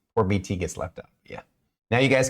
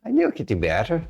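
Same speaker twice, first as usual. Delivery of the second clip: higher-pitched, put-on Scottish accent; 6 semitones higher than usual. Game master defends their accent to the teasing players, mock Scottish accent. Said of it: "What's wrong with the Scottish accent?".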